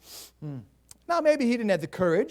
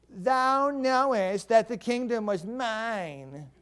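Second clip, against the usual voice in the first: spoiled prince; 2 semitones higher, much slower than usual. Acted. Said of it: "can't you picture this adult, spoiled prince".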